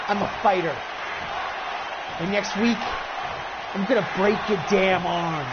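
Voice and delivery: cool menacing challenger. Acted. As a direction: stay calm and cold as you threaten him. Challenger answers coolly.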